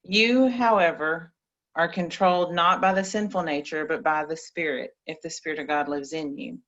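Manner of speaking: measured, solemn Bible reading; scripture reading. Acted. Reads Bible verses aloud.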